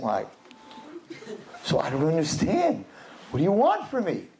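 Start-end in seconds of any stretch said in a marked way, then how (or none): 1.6-4.3 innocent shrug. Retold or imitated. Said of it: "that innocent".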